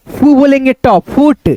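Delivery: फू then ट blended slowly into फुट; sounding it out. Shown as a demonstration. Teacher sounding out a word for kids. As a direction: build फुट from फू and ट. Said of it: "क्या बोलेंगे?".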